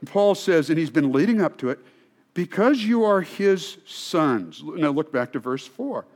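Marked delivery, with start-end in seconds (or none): 2.3-4.6 softened tone. Acted. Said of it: "Paul began to dial down the volume".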